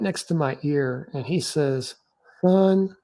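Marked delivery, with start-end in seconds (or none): 2.4-3.0 higher-pitched drawn-out Southern "son"; deep Southern accent. Retold or imitated. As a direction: imitate an older officer's deep Southern accent. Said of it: "in this deep Southern accent".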